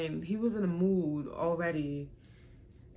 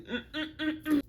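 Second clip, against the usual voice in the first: laughing groan; 10 semitones higher than usual. Real, not acted. Gagging at the thought.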